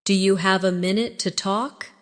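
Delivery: slightly slowed model question; slowly. Shown as a demonstration. Teacher models a colleague's question for learners, slightly slowly. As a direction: draw the question out a touch for repetition. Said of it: "Now repeat after me slowly".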